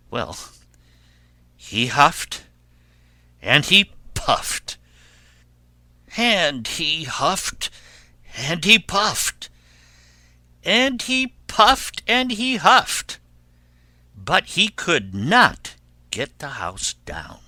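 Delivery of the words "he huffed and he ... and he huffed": slow repeated efforts, rising to a high peak; building drama. A narrator's reading. Narrator telling of wolf's failing efforts, rising drama. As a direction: pitch climbing with each phrase.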